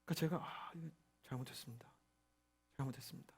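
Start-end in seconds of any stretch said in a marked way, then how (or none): 0.4-1.8 contrite apology. Retold or imitated. Contrite apology to angry Lord. 2.8-3.3 contrite apology. Retold or imitated. Repeated apology.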